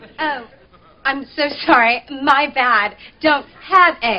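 put-on British accent, girl voice. Praising how Maya puts on the voice, imitating Maya's British white girl voice. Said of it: "this British white girl voice".

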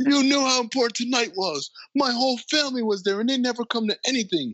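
very high, shrill, furious yelling. Recapping a scene where Brent the barista confronts her for leaving: retelling a yell. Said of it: "as he's yelling this".

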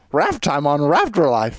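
loud, swooping, belted-out character voice. Another speaker asks for it, and the speaker answers in the Valor voice. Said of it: "Do the Valor voice".

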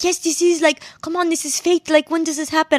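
put-on French accent. Retelling what a stranger said at the car window: imitating a French accent. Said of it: "and he's, like, French".

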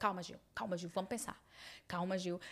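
soft, soothing, steadying, calming voice. Retelling calming down a distraught Gil after his test: retelling own calming words.

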